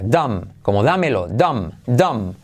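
"dumb" said as dum, no B; silent B in dumb. Shown as a demonstration. Teacher models dumb like dámelo, B silent. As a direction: end dumb on the M. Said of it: "La B no se pronuncia".

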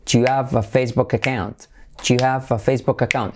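"have" without its H, linked as "chu-av"; dropped H. Shown as a demonstration. Teacher demonstrating without the H, "have" as "av". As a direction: drop the H in "have" after a merged "Do you". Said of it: "Sin la H".

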